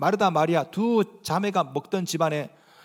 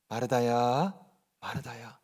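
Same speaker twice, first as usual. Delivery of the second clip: lower, softer, unhurried call that fades to near silence; 9 semitones lower, 9 dB quieter, slower than usual. Retold or imitated. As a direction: call her name gently, letting it fade. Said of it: "언어가 참 느긋하시죠". (낮고 부드럽게 느긋이 부르는 목소리)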